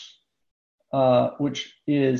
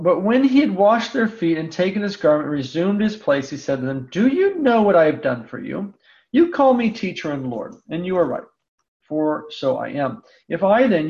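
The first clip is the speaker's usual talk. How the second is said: raised, measured reading of the Gospel; scripture reading. Acted. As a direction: read the passage to the class, unhurried. Reads the Gospel passage aloud.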